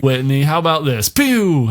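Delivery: high, playful blast sound; lightly hammed villain; mock villain zap. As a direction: zap him with a cheeky pew. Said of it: "He's just like".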